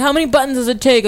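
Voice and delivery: mocking question. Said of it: "People are like".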